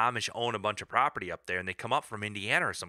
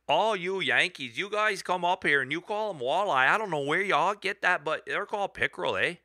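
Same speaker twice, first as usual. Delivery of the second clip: mock Canadian accent; 2 semitones higher than usual. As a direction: tease the Yankees in a light Canadian accent. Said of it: "you gotta have a little bit of an accent".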